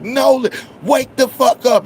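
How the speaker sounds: high, loud yell to wake him. Retold or imitated. Friends yelling at the dazed driver, high and loud. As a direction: shout him awake. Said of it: "They like".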